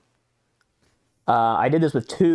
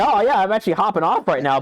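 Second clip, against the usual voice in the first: mimicking a scam bot's fake brush-off; mocking bot voice; 6 semitones higher than usual. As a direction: parrot the canned excuse in a sarcastic high voice. Mocking the bots' stock excuse.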